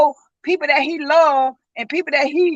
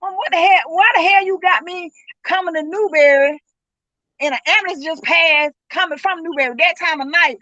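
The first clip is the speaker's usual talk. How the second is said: higher, urgent demand at her mother; alarmed cursing; 3 semitones higher than usual. Retold or imitated. Son's mother on the phone at night, alarmed and cursing. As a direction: snap out the question in rising panic. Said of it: "never cursed, never, never none of that".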